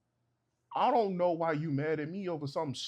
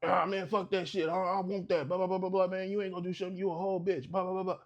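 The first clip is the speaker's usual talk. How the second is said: a touch higher, lightly voiced loudmouth; mock rude dude; 4 semitones higher, faster than usual. Flirting stranger mouthing off at the husband, mock rude taunting. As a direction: brush him off like a mouthy stranger.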